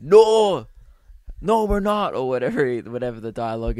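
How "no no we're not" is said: high, loud mock refusal; hammed-up exasperated shouting; acted exasperated yell. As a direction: shout it back like a fed-up ogre. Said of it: "he just screams at him".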